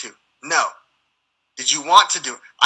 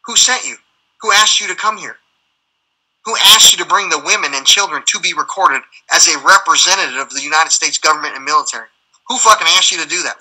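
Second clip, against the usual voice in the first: raised, indignant questioning; forceful demand; 5 dB louder than usual. Real, not acted. Veteran confronting military men who sent the others, indignant demand. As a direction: press each question hard, emphatic and heated.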